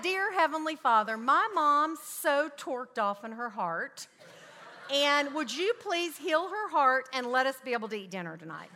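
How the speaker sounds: put-on child's earnest prayer. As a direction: imitate a young daughter's earnest prayer, projected. Child's prayer retold, audience laughing.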